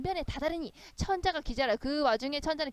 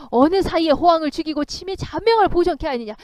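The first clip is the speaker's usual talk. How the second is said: amazed emperor; 4 semitones higher, 9 dB louder than usual. Acted.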